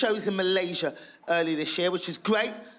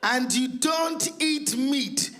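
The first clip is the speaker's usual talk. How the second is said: mum's shocked outburst; 9 semitones higher, much slower than usual. Retold or imitated. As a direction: shriek it out like an appalled mother. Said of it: "She was like".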